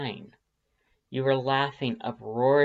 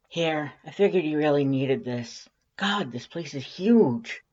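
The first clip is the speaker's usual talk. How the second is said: lightly voiced brash friend, a bit higher; Undyne's voice; 4 semitones higher than usual. A narrator's reading. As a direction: Undyne bringing coffee to her friend, casual and upbeat. Undyne voiced in read fic.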